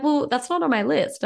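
high, laughing objection; amused protest. Retold or imitated. Mocking her own reaction to the walk nudge, laughing.

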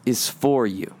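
slow, drawn-out sincere plea; preacher urging listeners, slow and earnest. Acted. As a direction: let it sink in slowly. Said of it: "get this phrase in your head".

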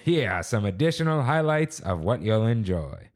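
lightly voiced old-timey announcer. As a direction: read it like a fifties radio host. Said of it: "should I read this in, like, an old-timey voice?".

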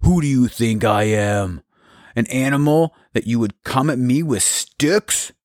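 mocking, contemptuous giant voice; scornful giant. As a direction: sneer down at a tiny boy. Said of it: "instantly hated him".

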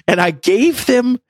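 high, slow, through real laughter; laughing confession. Real, not acted. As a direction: drag it out while laughing at yourself. Confessing his own silly mistake.

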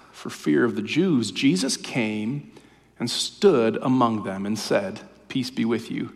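hushed reading of the resurrection Gospel; scripture reading. Acted. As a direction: read the Easter story gently, letting it breathe. Reads John's Gospel.

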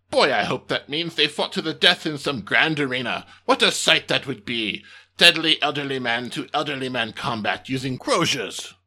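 gleeful pompous alien commander; excited alien boss. Acted. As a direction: relish the idea, pompous alien.

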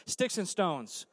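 Sticks and Stones said slowly; slow, drawn out. Shown as a demonstration. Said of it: "I want everybody to say that".

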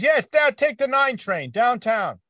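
hammed-up local barking directions slowly; old New Yorker giving directions. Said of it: "he says".

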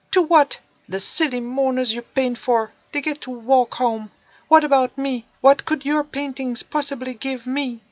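loud, high, resentful; loud high bitter questions; angry teen. Acted. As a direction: demand it bitterly. Teen rails at painter.

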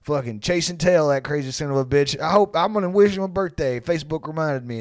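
lightly voiced hearty pal; imagined old buddy. Old buddy remembering Dave's birthday, lightly imitated heartiness. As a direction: imitate a high school buddy musing. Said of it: "probably, like".

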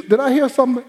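high, sharp challenge; mother's challenge. Retold or imitated. Mother catching child's back talk, high challenge. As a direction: dare the child to repeat it.

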